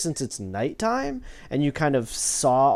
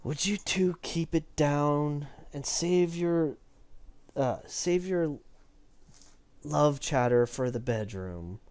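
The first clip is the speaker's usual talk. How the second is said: slow, drawn-out mild scolding; halting, stretched-out reprimand over the shoulder; Savra; 6 dB quieter, slower than usual. Acted. Guard tells two chatterers to keep it down, slow scolding. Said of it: "Savra kinda looks over her shoulder".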